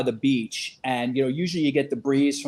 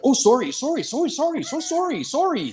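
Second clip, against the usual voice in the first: high, flustered rapid sorries; over-apologize like a Canadian; apologetic Canadian; 10 semitones higher than usual. Retold or imitated. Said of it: "I was like".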